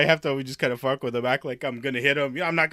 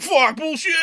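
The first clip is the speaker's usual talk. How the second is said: loud, high mock indignation; imitated mad outburst; 13 semitones higher, 6 dB louder, slower than usual. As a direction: act out an offended man cursing back. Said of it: "He's just getting all mad".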